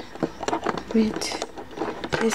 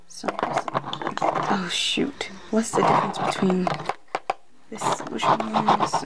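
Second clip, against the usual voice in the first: whisper. Real, not acted. Stumped by the extra-credit question.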